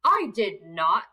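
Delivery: troll protest. Acted. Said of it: "cried the troll".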